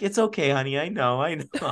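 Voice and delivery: lightly voiced kindly old lady, slightly high; a hint of a forgiving old woman's reassurance; sweet old lady. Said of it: "very, very sweet".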